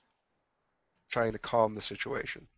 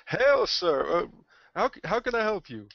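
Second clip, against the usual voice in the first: higher, louder hail, then a lilting question; raised-pitch, in-character greeting; hailing a newcomer; 8 semitones higher, 4 dB louder than usual. Acted. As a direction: greet an angry customer in a high, eager voice. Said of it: "I'll greet our, uh, very angry half-orc".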